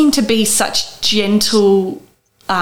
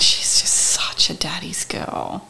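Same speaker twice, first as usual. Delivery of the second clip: tearful near-whisper; choked up, barely voiced; blubbering; 4 semitones lower, 7 dB quieter, slower than usual. Real, not acted. Speaker chokes up about daughter.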